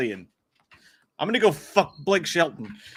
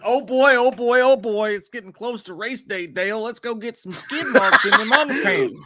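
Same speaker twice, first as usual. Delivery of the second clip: excited chat read; 6 semitones higher, 3 dB louder than usual. Acted. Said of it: "Texas Tootin says".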